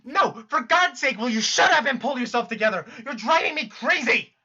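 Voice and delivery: exasperated angry yell. Acted. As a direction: lose your temper at them. Berating a blubbering friend.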